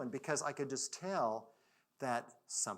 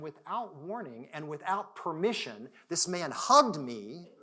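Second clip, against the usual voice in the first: emphatic, moved; 4 semitones higher, 11 dB louder, slower than usual. Real, not acted. Moved climax of the story.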